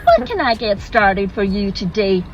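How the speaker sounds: chirpy American server voice; American accent. Acted. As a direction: put on an eager American customer-service lilt. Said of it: "Sorry, forgive the accent".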